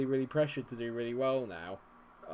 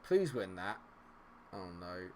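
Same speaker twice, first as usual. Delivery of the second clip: ordinary talk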